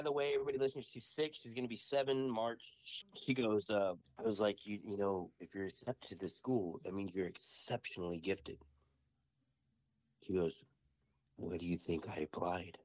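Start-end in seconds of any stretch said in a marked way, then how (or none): 4.6-8.6 lightly acted schoolmaster, a little low; in-character wizard. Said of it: "we're in total character". 11.4-12.8 lightly imitated child witch, low and deadpan; daughter in character. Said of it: "she's talking just like this".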